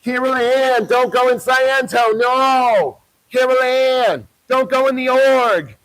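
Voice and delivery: hammed-up cry not to go in; mock Poltergeist mother. Parodying Poltergeist at the building, pleading mock call.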